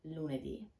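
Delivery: lunedì repeated softly, falling, stress on ì; echo repeat. Shown as a demonstration. Teacher echoing lunedì quietly for learners. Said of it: "we have".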